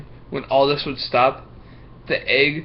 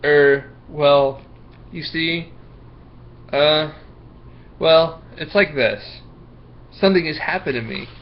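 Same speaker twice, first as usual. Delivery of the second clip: hesitant, halting start with fillers; stammering excuse; 2 semitones higher than usual. Acted. Marco stammering to Miss Block, halting and unsure. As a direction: stall for time, stumbling. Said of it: "Marco stuttered".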